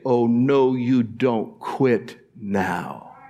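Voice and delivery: fading, lightly voiced warning; a hint of God's voice. God voiced by preacher, a mild fading warning. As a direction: gently warn them off, softening. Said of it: "The love of God will say".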